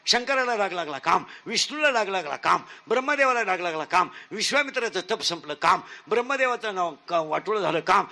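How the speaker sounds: rhythmic repeated refrain ending each line; preaching litany. Acted. Preacher lists the gods to the crowd in a rhythmic preaching refrain. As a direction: drive the refrain home line after line.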